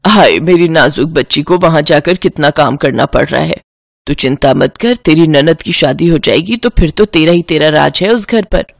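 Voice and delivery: put-on a mother sighing over her pampered girl; fussing mother. Divya's mother on phone.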